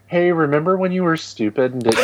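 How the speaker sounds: mock scolding through laughter; laughing. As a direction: tease him while cracking up. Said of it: "next year I'm like".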